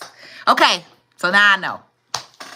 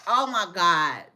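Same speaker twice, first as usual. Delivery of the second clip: ordinary talk, nothing marked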